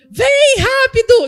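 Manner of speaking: high, loud shout. Telling of driving with the car window open, retelling a shout out the car window. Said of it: "com o vidro e gritando".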